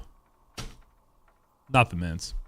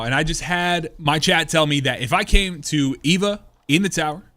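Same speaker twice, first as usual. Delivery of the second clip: YouTube host; 2 semitones higher than usual. Acted. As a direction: pitch it like a video host. YouTube short intro read.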